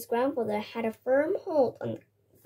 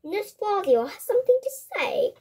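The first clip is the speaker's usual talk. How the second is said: commanding; 8 semitones higher, 3 dB louder than usual. A narrator's reading. Grandmother commands class.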